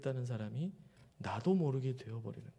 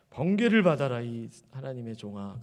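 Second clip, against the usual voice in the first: mock thunderous god; 6 dB louder than usual. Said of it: "하나님 이렇게 얘기하세요".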